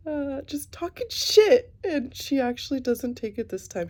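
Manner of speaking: laughing. Real, not acted. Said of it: "why am I cracking up".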